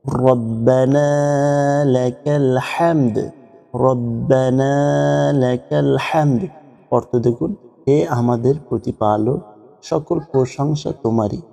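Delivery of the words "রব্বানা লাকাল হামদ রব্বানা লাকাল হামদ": রব্বানা লাকাল হামদ slow chant; prayer recitation. Shown as a demonstration. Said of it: "উঠে বলতে হয়". (নামাজের সুরে ধীরে)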